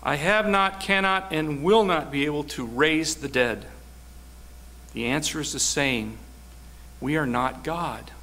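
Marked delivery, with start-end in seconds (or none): 0.0-3.7 voice of God. Acted. God's reply voiced.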